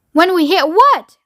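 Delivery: alarmed cry. A narrator's reading. Passengers asking Wonka what they will hit, crying out. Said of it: "they cried".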